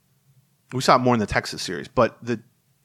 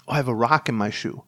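matter-of-fact quote; 3 semitones lower, 4 dB quieter than usual. Retold or imitated. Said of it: "this is brilliant".

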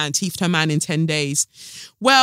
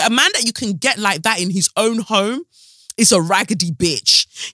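ordinary talk, nothing marked

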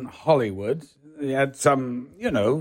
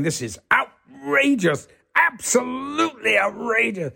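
indignant squeal, much higher; outraged high protest; 9 semitones higher than usual. Retold or imitated. Danny Kaye bent over table, high outraged wail.

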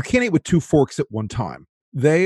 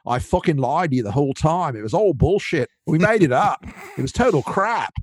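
hammed-up Australian confession, rising higher as it goes; mock Australian accent; 4 semitones higher than usual. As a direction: put on a bad Aussie tycoon accent. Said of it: "Rupert Murdoch is Australian by extraction".

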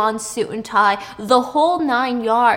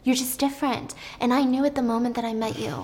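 comforting; 2 semitones higher, 5 dB quieter, faster than usual. Retold or imitated. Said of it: "Steve comforts her".

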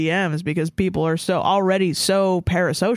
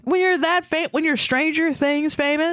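much higher, stressed Stranger Things famous; emphatic; 9 semitones higher than usual. Real, not acted. Telling the cohost how famous he is, high and emphatic. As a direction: push the words up high for emphasis.

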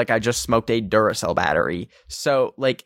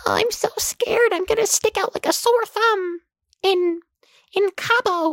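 mocking white tourist. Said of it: "fully white people are like".

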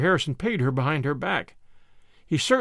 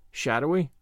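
ordinary delivery

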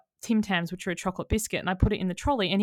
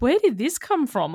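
raised, louder retold outburst; a bit higher and louder, as if blowing up; losing it; 5 semitones higher, 6 dB louder than usual. Blowing up at someone after unspoken resentment, losing it. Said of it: "you eventually lose it".

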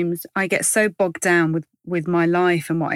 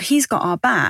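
excited realisation; 3 semitones higher than usual. Retold or imitated. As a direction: say it like a rescue just arrived. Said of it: "made me go".

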